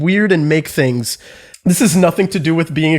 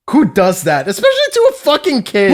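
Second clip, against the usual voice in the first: indignant, rising much higher at the end; angry; 6 semitones higher than usual. Real, not acted. Friend recalls a teacher's injustice, angry and indignant. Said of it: "I'm so angry".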